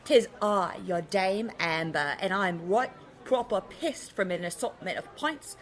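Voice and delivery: a light put-on British accent, tipsy pub swagger; mock British accent. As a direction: lightly fake a posh British lady. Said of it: "we've already got the bloody accents".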